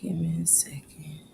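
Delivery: whispered aside, off mic; breathy whispered aside to the room. Real, not acted. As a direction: hush it, someone's on the line. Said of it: "whispering while on a call".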